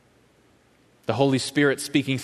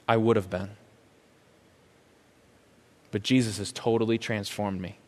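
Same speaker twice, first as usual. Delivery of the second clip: calm gracious reply; 2 semitones lower than usual. Retold or imitated. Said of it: "without being flippant, without being dismissive".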